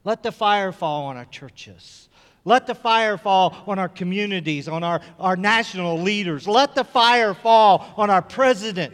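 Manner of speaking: building to a high, full-force shout; impassioned prayer cry. Real, not acted. Preacher pleading with God for his people, impassioned shouted prayer.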